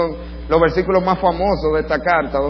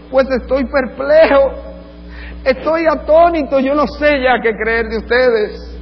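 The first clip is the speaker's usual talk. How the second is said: slow, higher dismay; perplexed father; 7 semitones higher, 3 dB louder, slower than usual. Retold or imitated. Paul as a father perplexed by his children, slow and higher. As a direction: plead in baffled dismay. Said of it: "él está incómodo".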